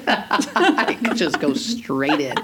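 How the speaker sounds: slow words through laughter; laughing. Real, not acted. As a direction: chuckle through the line. Laughs while joking about swimming.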